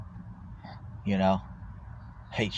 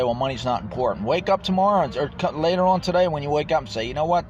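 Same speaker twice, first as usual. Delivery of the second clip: mocking; 3 semitones higher, faster than usual. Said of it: "people say".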